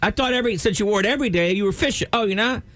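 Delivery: high fake-surprised questions; squeaky smug small talk; patronizing acquaintance. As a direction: play dumb up high to needle him. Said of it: "mocking acquaintance".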